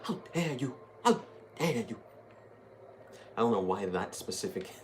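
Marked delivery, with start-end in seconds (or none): 0.0-2.0 mock Swedish accent, sharp and indignant; doing an indignant Swedish activist accent; Greta Thunberg impression. Gamer quoting a Swedish girl in Swedish accent. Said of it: "like, that accent".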